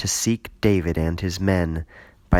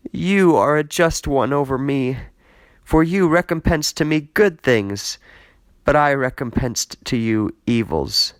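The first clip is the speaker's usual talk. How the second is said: mild weeping Saul; 5 semitones higher, 3 dB louder than usual. Acted. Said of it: "and wept".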